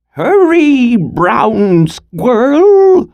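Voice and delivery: high, loud urgent call. Acted. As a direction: call the grandson home fast. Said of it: "she called".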